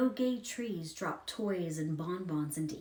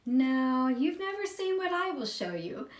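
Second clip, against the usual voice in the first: a much higher, much louder messenger's voice; loud, high otherworldly messenger cutting her off; commanding messenger; 6 semitones higher, 7 dB louder than usual. Acted. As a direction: proclaim it like a stern spirit. Messenger corrects Effie firmly.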